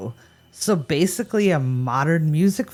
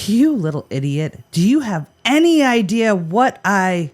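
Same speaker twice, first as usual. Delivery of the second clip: lightly acted scolding, a bit louder; mock yelling; 4 semitones higher, 5 dB louder than usual. Host as Jim telling off his donkey, mild mock yell. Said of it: "Jim's probably yelling at his donkey".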